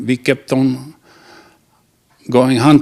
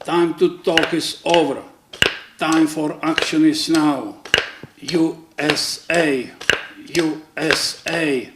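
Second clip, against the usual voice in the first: higher, measured slogan delivery, slowing on the letters; proclaiming chief; 3 semitones higher, 5 dB quieter than usual. Acted. Indian chief declares time for action, mock proclamation. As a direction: proclaim it softly, drawing out each letter.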